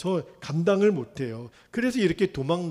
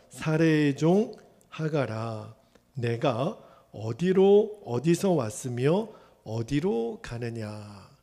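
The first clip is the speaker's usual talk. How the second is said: slow voice of the angel; slower than usual. Acted. Angel of the Lord asks.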